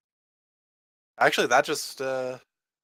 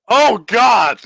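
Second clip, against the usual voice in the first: surprised; 6 semitones higher, 9 dB louder than usual. Real, not acted. Shocked at huge damage.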